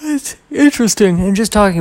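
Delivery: a high squeaky put-on voice; squeaky aside. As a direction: squeak the word out for fun. Mock-high word.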